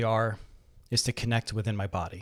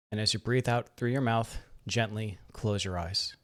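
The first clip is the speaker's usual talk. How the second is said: soft, unhurried meditation guidance with long pauses; guided meditation; 3 dB quieter than usual. Real, not acted. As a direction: guide them gently into relaxation, leaving room to breathe.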